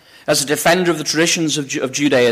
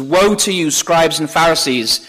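raised, measured woe from the pulpit; preacher quoting a stern rebuke; mild denunciation; 2 semitones higher than usual. Acted. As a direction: pronounce a woe, lightly declaimed. Preacher voices Jesus denouncing Pharisees.

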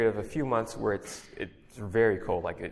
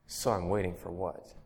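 grumbled; 4 semitones lower, 6 dB quieter than usual. A narrator's reading. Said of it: "and grumbled to God".

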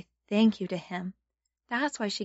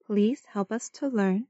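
sunday school teacher. Shown as a demonstration. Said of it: "pray together".

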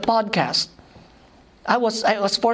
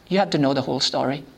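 urgent; 6 semitones lower, much faster than usual. Real, not acted. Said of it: "And I told them".

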